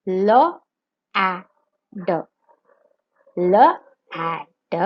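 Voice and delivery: letter by letter, slow and spaced; sounding out words. Shown as a demonstration. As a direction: sound out L, A, D one at a time. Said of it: "Sound out the letters and say the word".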